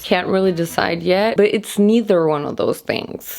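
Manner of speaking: rough groggy morning voice; croaky like just woke up. Real, not acted. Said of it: "My voice really sounds like a morning voice".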